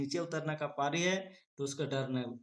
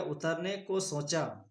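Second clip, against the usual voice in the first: slow spelling read; slower than usual. Shown as a demonstration. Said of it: "उ तो रो नमक ने का पड़ेगा?".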